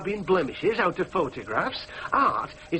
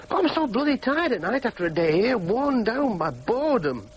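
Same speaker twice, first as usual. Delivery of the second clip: higher outburst slowing into weariness; frustrated complaint; 3 semitones higher than usual. Acted. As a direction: let the boredom burst out, then drag. Outburst in lonely monologue.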